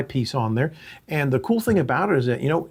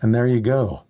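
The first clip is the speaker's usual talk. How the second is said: muffled in helmet mask; 3 dB louder than usual. Real, not acted. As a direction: voice muffled inside a full helmet. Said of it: "that's my voice in the mask".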